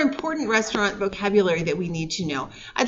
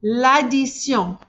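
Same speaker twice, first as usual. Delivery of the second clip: slow model to repeat; slower than usual. Shown as a demonstration. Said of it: "Répétez".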